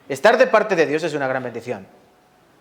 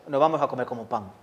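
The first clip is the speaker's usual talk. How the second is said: lower, quick and sure of himself; brisk, lower mock of the confident spy; bold confident voice; 3 semitones lower, 6 dB quieter, faster than usual. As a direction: answer like a fearless believer, low and brisk. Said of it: "Y el otro".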